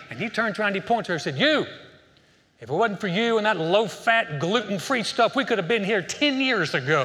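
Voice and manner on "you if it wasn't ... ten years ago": husband yells, pointing at his wife, then half laughing; angry outburst. Acted. Husband blaming his wife in heaven, hammed-up angry shout.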